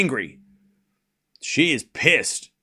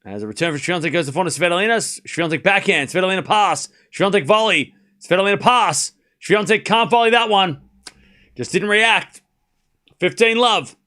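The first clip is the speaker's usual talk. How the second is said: play-by-play; 3 semitones higher than usual. Real, not acted. Live tennis play-by-play.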